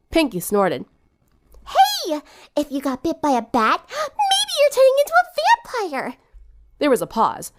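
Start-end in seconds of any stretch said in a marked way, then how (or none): 1.7-6.2 high, giggling tease; teasing laugh. Acted. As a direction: laugh through a joke about vampires.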